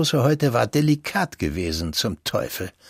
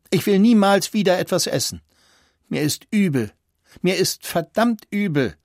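put-on high, frantic boy's outburst; beside himself; 7 semitones higher than usual. A narrator's reading. Sick boy refusing food to the doctor, frantic. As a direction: cry it out in despair. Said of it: "rief Christian außer sich".

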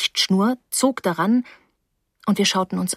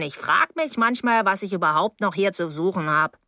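put-on offended older neighbour. Mrs Deering gives up at the door, huffy. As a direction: give up in a huff.

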